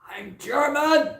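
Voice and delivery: shrieked high and slow; indignant yell, very high and loud; angry shout. Retold or imitated. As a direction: hurl it like a furious boy. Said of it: "bursting in anger".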